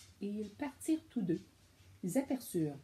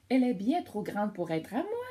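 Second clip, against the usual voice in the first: singsong hummingbird; 6 dB louder than usual. Acted. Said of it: "chanta Kiwi le colibri".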